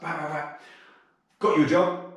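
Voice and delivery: high-pitched, pleased-with-herself prison officer; proper chuffed. Retold or imitated. Prison officer announcing a job she found, mock chuffed. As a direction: imitate her, chuffed to bits. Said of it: "she's all proper chuffed".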